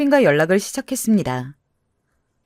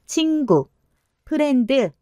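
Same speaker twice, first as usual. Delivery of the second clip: eager word swap; 7 semitones higher, slower than usual. Acted. Kevin repeating in English.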